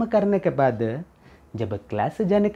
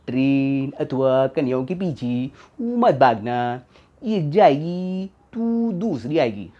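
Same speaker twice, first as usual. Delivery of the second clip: mock sage; 4 semitones lower than usual. Narrator quotes a film star's advice on chasing buses, mock sage.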